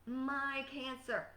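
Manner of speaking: "My" leaned on slowly, claiming it; drawn-out "My cancer" with weight on "My"; stress on MY. Retold or imitated. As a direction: possessive stress on "My". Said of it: "People keep owning the cancer by claiming".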